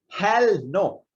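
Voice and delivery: loud, high defiant refusal; defiant shout. Retold or imitated. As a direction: bark it back like a stubborn star. Westbrook's defiant answer voiced.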